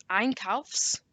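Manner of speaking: Einkaufs drawn out slowly on its own; split-up long word. Shown as a demonstration. Teacher splitting it into two, slow separate Einkaufs. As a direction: say Einkaufs slowly as the first half. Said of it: "it's good to split it into two".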